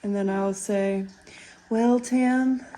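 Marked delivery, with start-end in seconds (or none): 1.7-2.6 loud, slightly raised delivery; mock consolation. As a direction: play at consoling a racer, loudly. Imagined consoling words to Tim.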